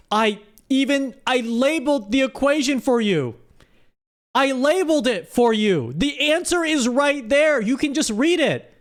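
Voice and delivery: exasperated teacher, pitch up. Real, not acted. Host exasperated at chat's answers.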